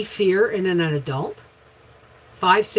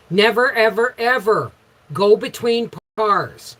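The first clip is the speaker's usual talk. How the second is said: raised, emphatic parental warning; stern scolding; 4 semitones higher, 4 dB louder than usual. Retold or imitated. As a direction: drive each word home to a small child. Retells scolding her frightened small son.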